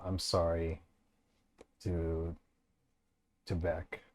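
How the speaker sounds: quiet rasping whisper, barely voiced; hoarse whisper. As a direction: push the words out through a raw throat. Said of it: "You can only speak in, like, a hoarse whisper".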